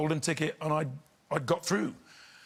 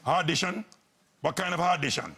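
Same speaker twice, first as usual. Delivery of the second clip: imitated mum's accented interrogation; suspicious mum. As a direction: question him like a disbelieving mother. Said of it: "Mum was standing in the front door".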